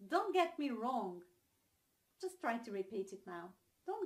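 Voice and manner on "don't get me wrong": "wrong" starting straight on the R; "wrong" with no W sound; silent W. Shown as a demonstration. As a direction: model the phrase with "wrong" said as "rong". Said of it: "you never pronounce the W".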